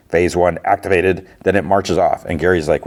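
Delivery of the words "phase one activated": lightly done robot voice, even and mechanical. Retold or imitated. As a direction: say it like a mild robot announcement. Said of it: "in a robotic voice".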